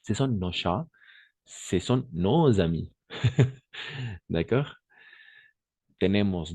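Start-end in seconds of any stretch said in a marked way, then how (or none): 0.0-0.9 "nos chats" with no s sounded; silent s in "nos". Shown as a demonstration. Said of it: "on va prononcer non". 1.5-2.9 z sound joining nos and amis; liaison in "nos amis". Shown as a demonstration. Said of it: "On va faire la liaison".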